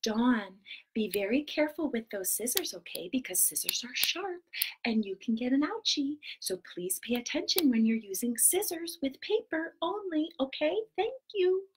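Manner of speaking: low, soft motherly whisper; imitating mom. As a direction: play mom gently warning her child. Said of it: "She's like this".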